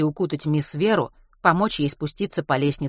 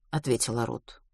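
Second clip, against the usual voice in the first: usual speaking voice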